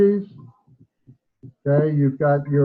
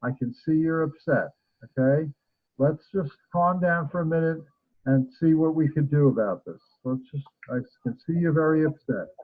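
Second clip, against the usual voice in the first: calm soothing voice. Shown as a demonstration. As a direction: settle her down gently. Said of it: "and talk in a very calm voice".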